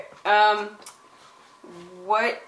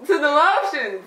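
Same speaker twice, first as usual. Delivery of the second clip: garbled through a mouthguard; wearing a mouthguard; 5 semitones higher, 4 dB louder than usual. Real, not acted. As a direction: speak with a mouthguard in. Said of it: "it's hard to understand".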